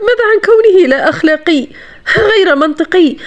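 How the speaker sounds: high-pitched, laughing incredulity; mocking disbelief. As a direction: throw it back as a scoffing question. Mocking retort after a laugh.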